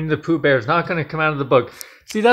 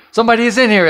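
high, louder frightened exclamation; alarmed cry; 8 semitones higher, 5 dB louder, much faster than usual. A narrator's reading. Ellen tells her father someone is there, alarmed.

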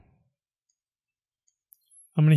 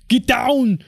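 "Get down." shouted higher and louder; Arnold Schwarzenegger; 8 semitones higher, 4 dB louder than usual. Retold or imitated. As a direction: bark "Get down." like an action hero. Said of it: "my best Arnold Schwarzenegger impression".

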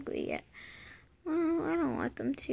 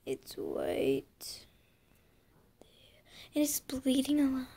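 whispering. Real, not acted. Hushed remark about her finger.

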